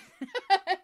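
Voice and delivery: loud bright laugh; burst of laughter. Real, not acted. Laughing at own question.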